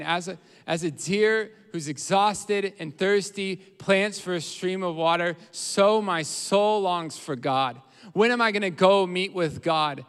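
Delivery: loud, drawn-out, weary longing; emphatic verse reading, stretched with need; exhausted and thirsty. Acted. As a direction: plead it like someone worn out and thirsty. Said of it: "They're not in a placid zone".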